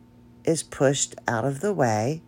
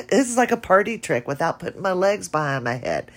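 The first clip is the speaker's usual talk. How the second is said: laughing; 5 semitones higher, 3 dB louder, faster than usual. Real, not acted. Laughing after the trick.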